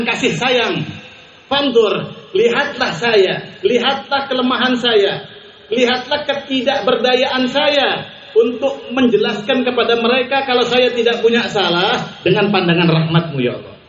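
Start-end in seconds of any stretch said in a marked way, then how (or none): 1.5-12.2 drawn-out, imploring plea to God; slow pleading prayer. Retold or imitated. Preacher voicing a wronged man begging God, slow and imploring. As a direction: stretch each lihatlah like a humble plea.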